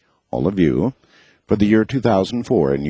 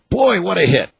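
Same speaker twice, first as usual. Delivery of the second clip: thrilled; 10 semitones higher than usual. Real, not acted. Thrilled after the chant.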